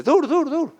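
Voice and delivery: high, urgent calling out; old man calling stop. Retold or imitated. Old man stopping the riders on the road. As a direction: flag them down.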